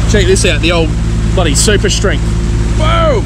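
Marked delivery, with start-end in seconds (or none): 2.8-3.2 excited exclamation. Real, not acted. Showing off the bright spotlight.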